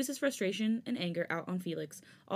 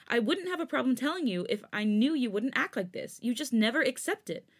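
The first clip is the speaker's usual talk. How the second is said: heated; 5 semitones higher, 4 dB louder than usual. Acted. Felix arguing heatedly.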